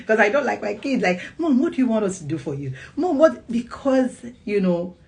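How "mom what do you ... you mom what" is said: put-on eager child. Eager child voiced in story.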